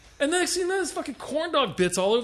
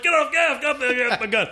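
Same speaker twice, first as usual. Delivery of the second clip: put-on yelling at the kids; 4 semitones higher than usual. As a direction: shout it at kids grabbing the gun. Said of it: "I'm like".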